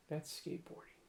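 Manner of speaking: soft unvoiced aside: That's skateboarding; breathy hush on That's skateboarding; whispered. Shown as a demonstration.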